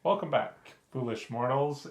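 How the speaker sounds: grand spooky host greeting; dark lord. Acted. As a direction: hail the fools like a dark lord. Spooky horror-channel host greeting.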